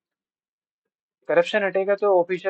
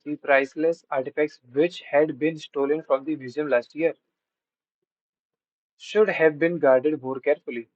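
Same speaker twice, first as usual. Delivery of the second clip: slow, careful read-aloud of an exam sentence; slow question reading; much slower than usual. Shown as a demonstration. Teacher reading an exam sentence to students, slow and deliberate. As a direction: spell it out word by word for the class.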